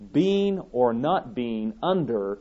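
slow, weighty landing on "under"; stress on UNDER. Real, not acted. Preacher clarifying what the allegory is about, stress on "under". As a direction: draw out "under" with firm emphasis. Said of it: "I emphasize the word under".

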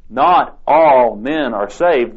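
"not all men are saved" said slow and deliberate; slow emphatic stress. Acted. Preacher drawing his conclusion, slow and emphatic. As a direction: spell out each word slowly.

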